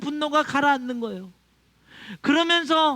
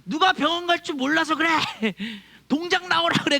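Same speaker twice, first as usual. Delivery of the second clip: mild mock yell; 5 semitones higher than usual. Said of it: "거기서 소리치면서".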